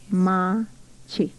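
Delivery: Machi spoken as two clear syllables, MA-chi; teacher sounding out Machi. Shown as a demonstration. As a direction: split Machi cleanly into two beats. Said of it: "Two syllables".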